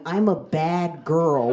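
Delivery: slow, dazed, half-conscious words; woozy mumble. Retold or imitated. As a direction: slur it out as you drop to the ground. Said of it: "I just hit the ground going".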